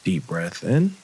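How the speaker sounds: calm, unhurried meditation guide, leaving long pauses; guided meditation. Acted. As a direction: ease listeners gently through breathing and relaxing.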